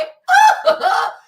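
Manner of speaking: loud high shrieking laughter. Real, not acted.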